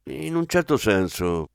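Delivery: vague, noncommittal reply; evasive. Acted. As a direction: stay deliberately vague on "certo". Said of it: "tenendosi sul vago".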